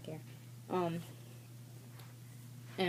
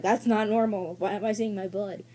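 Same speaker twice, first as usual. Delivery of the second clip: retold panic; 2 semitones higher, 6 dB louder than usual. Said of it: "started freaking out".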